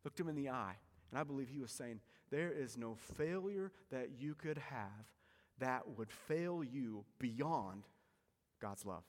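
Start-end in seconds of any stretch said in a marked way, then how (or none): 2.3-9.0 slow, gentle, fading softer to a hush; tender, slow reassurance. Retold or imitated. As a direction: speak like forgiving a friend. Jesus's imagined tender words.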